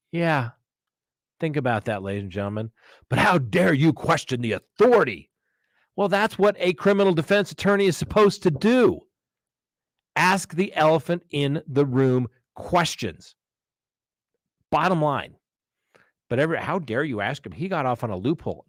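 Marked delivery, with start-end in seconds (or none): 3.1-5.3 mock indignation. Mocking an offended official. 16.6-18.6 softer, sneering mock outrage; mimicking the indignant crowd, quietly scornful. Mocking people outraged by acquittals.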